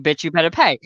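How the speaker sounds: mild, put-on politeness for a customer; customer service voice. Barista to non-paying customer, lightly put-on customer service voice. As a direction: say the threat as if serving nicely. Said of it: "customer service voice".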